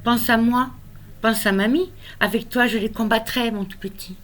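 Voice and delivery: lyrical recital, line endings left to fall away; tender, measured poetry recitation; poem reading. Acted. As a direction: comfort a small child through verse, pausing between phrases. Recites consoling poem to grandson.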